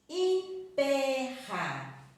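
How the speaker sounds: "Emperra" very slow and loud, in separate syllables; syllable-by-syllable stress. Shown as a demonstration. Teacher breaking down the word for pupils, loud syllabled "Emperra". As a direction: split "Emperra" with a strong, high "pe". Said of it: "Nós temos a sílaba tônica forte".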